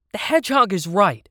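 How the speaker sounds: high, loud agreement; shouting. A narrator's reading. Toys all back the hedgehog, shouting high and loud. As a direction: call it out as a crowd would. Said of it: "everyone started shouting".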